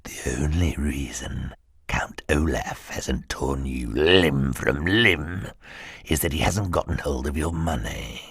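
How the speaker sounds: slow, low, soft sinister whisper; menacing whisper. Acted. Henchman warns Klaus he will die, whispering slowly. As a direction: breathe the threat slowly into his face.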